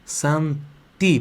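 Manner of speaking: very slow, syllable by syllable; deliberate teacher's dictation; piece by piece. Shown as a demonstration. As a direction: break the Italian into drawn-out syllables. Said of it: "Eu vou falar um pedacinho".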